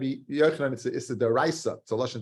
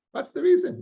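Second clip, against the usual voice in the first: rhetorical outburst; 4 dB louder than usual. Real, not acted. Rhetorical question to class.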